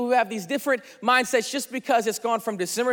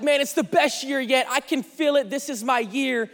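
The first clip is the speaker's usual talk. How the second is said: higher, mock-excited new-year enthusiast; 4 semitones higher than usual. Pastor acting out a fired-up New Year character, excited. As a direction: play a fired-up guy, lightly hyped. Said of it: "This guy is just excited".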